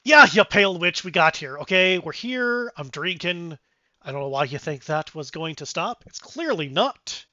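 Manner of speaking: loud burst, settling into grumbling; lightly voiced dwarf griping; irritated dwarf. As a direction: open loud and annoyed, then ease off. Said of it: "As the dwarf goes".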